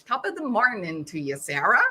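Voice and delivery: lightly put-on Irish accent, barely there; a feeble stab at an Irish accent; a hint of Irish brogue, mostly own voice; bad Irish accent. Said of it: "That was a terrible imitation".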